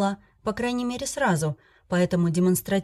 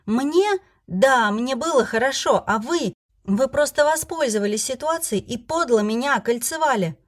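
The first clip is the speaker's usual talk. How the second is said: hurt indignation; 5 semitones higher than usual. Acted. Heroine accuses the dragons.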